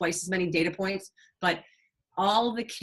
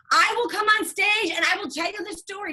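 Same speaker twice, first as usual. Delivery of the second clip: much higher, bright eager offer, the second line fast; eager teen; 12 semitones higher, 4 dB louder than usual. Retold or imitated. Nurse imitates the girl volunteering to tell her story, eager and high. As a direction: pitch it up like she can't wait to go on stage.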